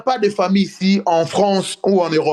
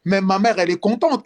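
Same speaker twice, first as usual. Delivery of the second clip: ordinary talk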